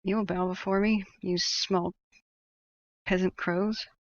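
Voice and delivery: lightly voiced haughty raven king; a hint of a pompous tyrant; dark lord.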